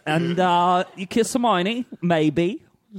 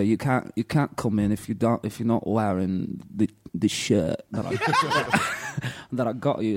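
rock star British; 6 semitones lower than usual. Retold or imitated. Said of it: "Brent doing nineteen eighties British rock star".

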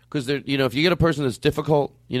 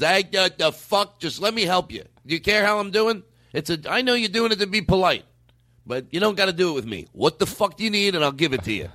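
exasperated rep; 4 semitones higher than usual. Retold or imitated. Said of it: "That's someone sticking to their guns".

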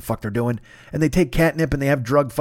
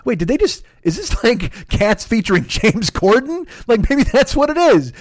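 amused disbelief; 5 semitones higher, slower than usual. Retold or imitated. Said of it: "and I'm like".

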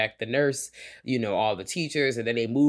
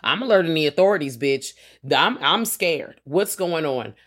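mock scared; 3 semitones higher, 4 dB louder than usual. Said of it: "And I'm like".

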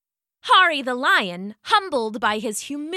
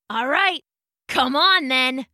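growl. Acted. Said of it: "growled the lion".

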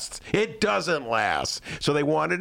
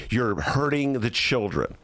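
mock sanctimonious; 7 semitones lower than usual. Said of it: "reigning minds of Chicago said".

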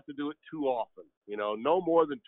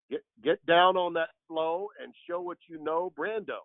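dance-floor hype; 3 semitones higher than usual. Retold or imitated. Dance-floor nickname chant.

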